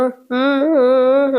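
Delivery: drawn-out "mm" sounds; imitated humming. Prabhavati responds with wordless sounds, imitated drawn-out humming. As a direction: hum a wordless "mm-mm". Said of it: "అని అంటూ ఉంటది".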